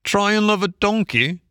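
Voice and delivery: gypsy teasing Toad, high and wry; gypsy's suggestion. A narrator's reading. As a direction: needle him with a sly suggestion. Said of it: "suggested the gypsy".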